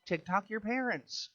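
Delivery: hammed-up telling-off of the TikTok kids; mock scolding. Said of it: "And I'm like".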